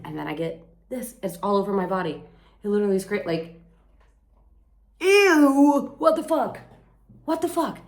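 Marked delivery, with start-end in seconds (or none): 5.0-7.8 high, loud shriek of disgust; disgusted yell. Real, not acted. Vlogger yelling at her mosquito bites, shrieking in disgust. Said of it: "what was I just yelling about".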